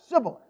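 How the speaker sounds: SIBBOLETH with S instead of SH; mispronounced shibboleth. Shown as a demonstration. Preacher retrying the test word, SIBBOLETH with S. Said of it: "I can't pronounce it right either".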